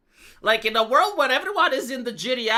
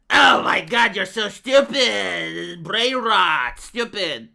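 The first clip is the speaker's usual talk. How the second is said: scoffing mock critic, loud start then slowing on stupid; 2 semitones lower, 4 dB louder, much slower than usual. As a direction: sneer like a know-it-all troll calling him dumb. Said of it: "a lot of people call me stupid".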